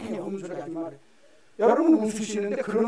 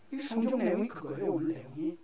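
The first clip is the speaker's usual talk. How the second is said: ordinary talk, nothing marked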